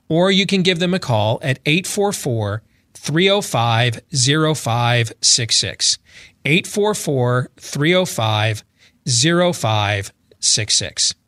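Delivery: slow, deliberate phone number. Shown as a demonstration. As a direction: read each digit out very slowly. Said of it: "I know you can talk a lot faster than that".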